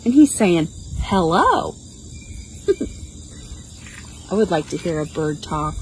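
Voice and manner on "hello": talking parrot. Shown as a demonstration. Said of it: "this is another parrot".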